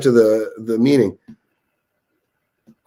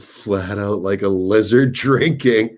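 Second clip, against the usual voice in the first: slow, put-on Aussie accent; Australian accent; 4 semitones lower, slower than usual. Showing off an Aussie saying, slow mock Australian accent. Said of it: "Us Aussies, we talk and we say".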